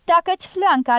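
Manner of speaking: "Tacă-ți fleanca" flung out high and loud; furious outburst. Acted. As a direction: explode with savage rage on "Tacă-ți fleanca". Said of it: "izbucni cu o furie sălbatică nestăpânită".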